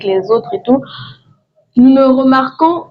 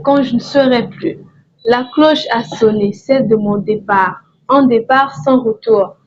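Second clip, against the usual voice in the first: measured recitation in short, even phrases; solemnly worded verse, plainly recited; poem reading. Acted. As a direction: read your own poem aloud, pausing after each line. Reads own poem aloud.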